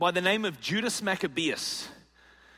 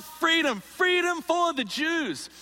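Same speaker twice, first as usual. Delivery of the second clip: crowd battle shout; 9 semitones higher, slower than usual. Acted. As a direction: draw each word out like a crowd cheering. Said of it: "They would shout".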